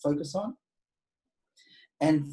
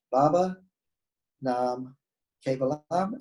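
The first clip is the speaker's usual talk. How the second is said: slow and deliberate; slower than usual. Shown as a demonstration. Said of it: "the mantra has three words".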